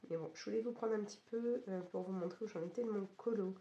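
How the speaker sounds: hoarse, losing voice from a cold; croaky sick voice, mostly gone. Real, not acted. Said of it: "vous pouvez l'entendre avec une voix complètement cassée". (voix cassée et enrouée)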